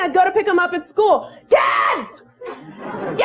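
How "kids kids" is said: put-on calling the kids. Mom calling kids at school.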